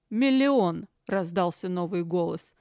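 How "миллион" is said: high, loud one-word bid. A narrator's reading. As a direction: call out the bid boldly. New bidder at auction.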